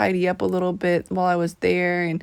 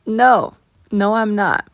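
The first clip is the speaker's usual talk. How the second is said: playful defiance; 5 dB louder than usual. Real, not acted. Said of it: "And am I gonna stop?".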